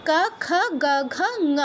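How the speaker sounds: ক, খ, গ, ঘ, ঙ with short 'uh' vowels; measured syllables ক to ঙ from the throat; Sanskrit velar row. Shown as a demonstration. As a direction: recite the row ending in ঙ as 'nguh'. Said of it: "উচ্চারণটা কীরকম হবে".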